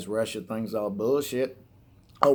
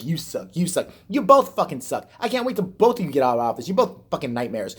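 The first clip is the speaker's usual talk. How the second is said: mock angry rant; 2 semitones higher than usual. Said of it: "they both blame each other like".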